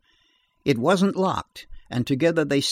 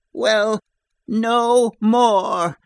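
higher and louder, final verdict; furious cry; 8 semitones higher, 6 dB louder, much slower than usual. A narrator's reading. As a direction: spit out the last words before striking. Mrs Sloane raising the axe.

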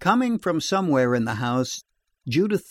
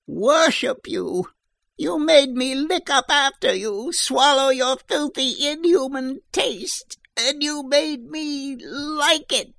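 shrill angry shout; 12 semitones higher than usual. A narrator's reading. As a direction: scream it out in shrill disgust. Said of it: "her voice grew into a shrill, angry shout".

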